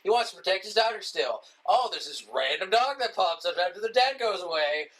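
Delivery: animated, mocking retelling of a trailer; mock plot recap. Ribbing a film's plot from the previews, mock amazement. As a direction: recap it with exaggerated obviousness.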